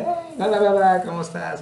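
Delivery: cheery greeting. Retold or imitated. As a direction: breeze in all cheerful. Arriving home happy, greeting parents.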